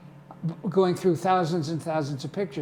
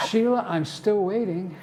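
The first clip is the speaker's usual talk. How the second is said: laughing; 5 semitones higher, 4 dB louder than usual. Real, not acted. Punchline, laughing.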